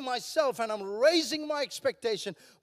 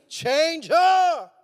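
loud, higher mock-desperate demand; exasperated shout; 4 semitones higher, 9 dB louder than usual. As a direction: burst out at God in play exasperation. Acted exasperated husband's prayer bursts out.

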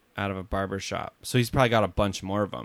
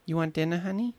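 Queenie's New York accent; 7 semitones higher than usual. Shown as a demonstration. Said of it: "Just say, like".

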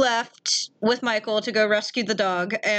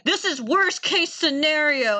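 mock alarm; 4 semitones higher, slower than usual. Imitates April's alarmed reaction.

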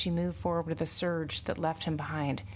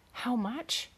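higher, excited question; 7 semitones higher than usual. A narrator's reading. Farmhand asks about buying his horse, excitedly. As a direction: ask with eager interest, pitch lifted. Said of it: "George asked excitedly".

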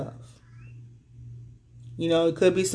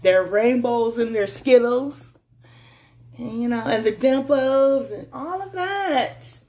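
gushing; 4 semitones higher than usual. Acted. Gushing over the perfect partner.

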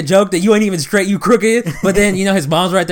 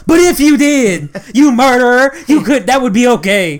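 high, insistent parody of acceptance; mock pushy reassurance; 3 semitones higher, 3 dB louder than usual. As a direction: press the accusation while pretending to forgive. Parodying pushy false reassurance with murder.

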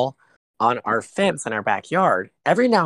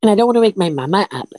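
higher, louder, fast mocking voice; mocking singsong; 10 semitones higher, 6 dB louder, faster than usual. Friend mocking me for living with my mom. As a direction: tease him in a put-on voice. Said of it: "mocking the friend".

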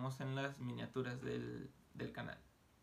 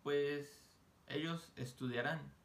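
"ellos estudiarán" said slowly; measured teacher pace; slow model; slower than usual. Shown as a demonstration. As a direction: draw out "Pues ellos estudiarán" for the class. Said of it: "teacher models sentence".

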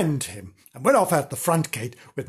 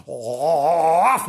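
bark; 4 dB louder than usual. Acted. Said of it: "Do that again".

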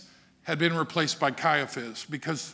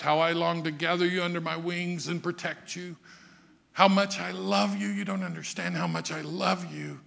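tender lament. Acted. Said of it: "And he wept".

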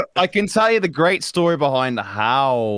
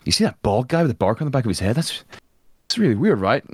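mock worried crowd; 2 semitones higher than usual. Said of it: "sound a bit more worried".

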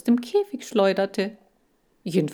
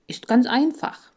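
higher, louder breezy reassurance; confident pep; 6 semitones higher, 4 dB louder than usual. Acted. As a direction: sell it as no big deal. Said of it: "Also, passt auf". (hoch und laut, lässig-zuversichtlich)

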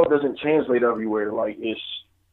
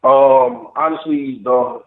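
hazy and halting, high on weed; searching for words while high; 2 semitones lower than usual. Real, not acted. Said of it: "I'm high right now, so just bear with me".

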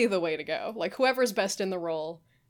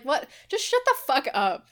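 annoyed; 6 semitones higher, 4 dB louder than usual. Retold or imitated. Angry retort to imagined line.

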